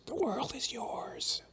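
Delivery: high breathy whisper, slow; eerie whispered echo of the lyric. Pretend. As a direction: breathe it like a secret. Repeating lyric in voices.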